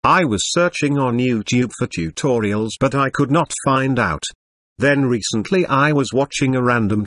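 robotic text-to-speech computer voice. Acted. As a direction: read it like an old speech synthesizer. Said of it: "sorry for the computer voice".

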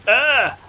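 short, high mock scream; quick high-pitched "ah" mimicking a death cry; imitated scream. Player retells hearing a teammate die, imitated scream. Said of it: "and a scream going".

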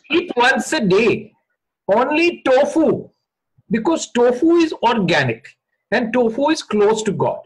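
hammed-up guru selling bliss, unhurried; guru impersonation. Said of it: "Let me do this impersonation".

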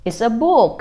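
parent playfully quizzing a little one; upbeat parent. Acted. Parent asking baby about a book, sing-song. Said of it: "thì mình sẽ hỏi là".

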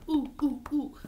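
short, light gorilla oohs; gorilla hoots. Acted. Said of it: "We're a gorilla".

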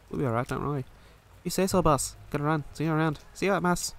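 lightly put-on Irish accent; game dialogue read with a touch of Irish. Two crime partners talking after a job, light Irish accent. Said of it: "Ten out of ten. Irish accent".

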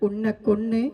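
spoof possessed woman, softly spaced phrases; a light mock menace, dragged at the end; Nagavalli. Comic threat to Koya in the skit, mock Nagavalli. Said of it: "നാഗവല്ലീനാണോ ഇഷ്ടം".

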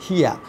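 "হিয়া" pronounced hee-a, no final r sound; hear pronunciation. Shown as a demonstration. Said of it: "উচ্চারণটা হবে হিয়া".

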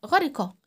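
snatch the i of غرقة quickly; غرقة with a brief kasra; short i in غرقة. Shown as a demonstration. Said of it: "بنخطفها كده".

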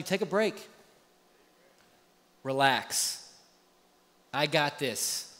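a hushed, reassuring God; soft voice of God. Acted. Pastor voices God telling believers to relax. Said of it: "what God is telling us".

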